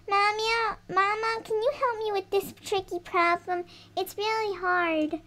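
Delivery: a touch of a whiny little daughter; doll asking for help. Pretend. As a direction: plead softly like a small child stuck on homework. Doll asks Mama for help.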